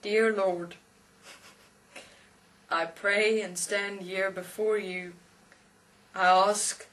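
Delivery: lightly acted solemn prayer; praying atheist. Atheist on his knees praying for forgiveness, lightly solemn. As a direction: pray slowly with long pauses, lightly in role. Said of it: "bends his head, and he says".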